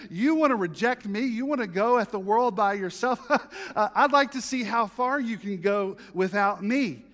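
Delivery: voicing God with a mocking laugh. Preacher voices God laughing at those who reject him. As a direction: laugh through it like a sovereign amused by a child. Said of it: "God is laughing, saying".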